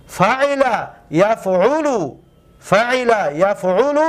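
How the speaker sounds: slow pattern drill. Shown as a demonstration. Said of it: "teacher pronounces the pattern".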